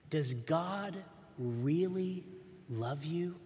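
understated tempting serpent voice; hissing snake. Acted. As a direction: tempt her quietly, a hint of a snake. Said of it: "The snake's words hissed".

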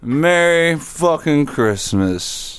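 slow, close-mic delivery; leaning into the mic. Acted. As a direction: lean in and say it slowly. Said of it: "I'll lean into the mic for this one".

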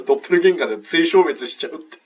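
high, loud, breaking into laughter; real laughter through the words; laughing retelling. Real, not acted. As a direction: crack up while passing on the joke. Retelling a joke, cracking up.

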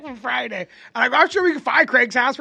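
loud, high joking yell, quoting the film Friday; mock movie shout. Joking with a friend who asked about Craig's house, a loud mock shout. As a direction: throw the line out big like the movie.

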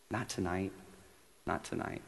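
tempting hushed whisper. Shown as a demonstration. Preacher voices the tempting inner voice, whispering. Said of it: "there will be a whisper".

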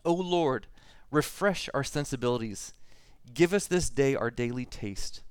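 solemn, measured prayer read aloud. Acted. Pastor reading a written prayer to the congregation, solemn. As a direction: intone it like a church prayer.

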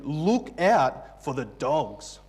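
slow, weighty warning; angry warning. Retold or imitated. Preacher voicing Paul warning the church about dogs, mildly angry. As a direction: sound the alarm with measured force. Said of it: "He's angry".

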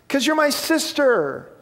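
hammed-up last words, stretched long; impassioned dying cry. Shot friend tells sister why, hammed-up dying cry. Dying of gunshot, heartfelt answer.

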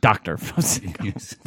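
slow, deliberate Doctor Fred Sanders; formal full title. Pretend. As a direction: say "Doctor Fred Sanders" slowly, stressing each word.

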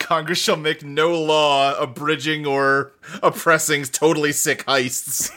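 slow, measured mock-solemn recital; mock-legal recitation. Joking about American freedoms, mock-legal recitation. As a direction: recite it slowly like a founding document.

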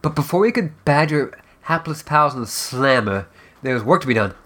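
measured, dramatic storyteller narration; fireside storytelling. Acted. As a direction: spin the tale by the fire. Storytelling voice continues.

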